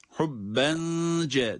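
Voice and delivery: "Hubbence" with the n held as a nasal hum; slow chanted "Hubbence" with hidden n; nasal ihfa. Shown as a demonstration. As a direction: linger through the nose on the n of "Hubbence". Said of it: "derken bir ihfa var".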